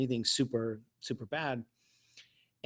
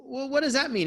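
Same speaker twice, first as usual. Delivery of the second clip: put-on bratty teen; 11 semitones higher than usual. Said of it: "And I go".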